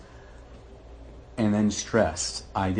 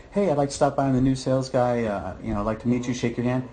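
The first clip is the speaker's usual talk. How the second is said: upbeat new sales guy, higher; chirpy sales-call voice; 4 semitones higher, 4 dB louder than usual. Retold or imitated. New sales guy cold-calling an engineer, eager and upbeat. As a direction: pitch yourself brightly to an engineer.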